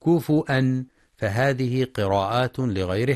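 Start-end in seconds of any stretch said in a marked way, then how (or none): 0.1-0.8 كفؤا with a glottal hamza; hamza reading. Shown as a demonstration. Teacher shows the non-Hafs reading, kufu'an. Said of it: "أو بالهمزة مع ضم الفاء".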